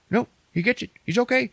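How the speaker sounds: high, eager viewer voice; acted sudden relief; relieved reaction.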